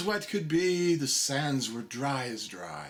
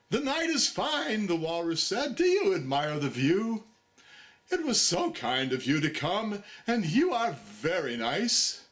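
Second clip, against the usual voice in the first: smooth walrus; 3 semitones higher than usual. Acted. Walrus sweet-talking.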